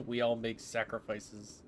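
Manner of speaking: slow, grave pronouncement with stress on all; mock solemn. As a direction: intone it like a noble martyr.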